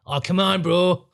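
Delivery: hammed-up pushy fundraiser; mock charity mugger. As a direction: wheedle like a street fundraiser. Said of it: "I hate the charity muggers".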